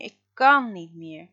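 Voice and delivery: loud tearful cry; sobbing. A narrator's reading. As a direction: sob the words out loud. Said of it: "begint Freek te huilen".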